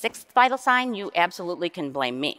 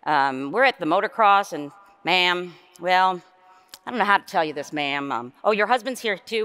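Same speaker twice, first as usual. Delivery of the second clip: put-on Southern accent. Southern caller phoning a mother about her son, light Southern accent. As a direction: lightly play a Southern caller, ma'am and all. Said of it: "I have to throw in the accent".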